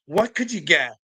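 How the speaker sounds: usual speaking voice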